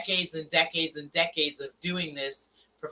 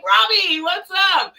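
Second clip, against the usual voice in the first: much higher, loud delighted recognition; surprised greeting; 7 dB louder, slower than usual. Retold or imitated. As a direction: greet him like a sudden surprise. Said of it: "I'm like".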